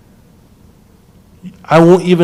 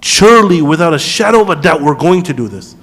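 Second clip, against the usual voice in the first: emphatic; 5 dB louder than usual. Shown as a demonstration. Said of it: "fa'ilun is not that".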